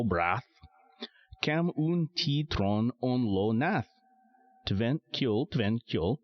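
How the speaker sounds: San Lorenzo dialect chanted slow and lilting. Shown as a demonstration. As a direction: recite it slowly in a thick San Lorenzo island dialect. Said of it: "the same poem went like this".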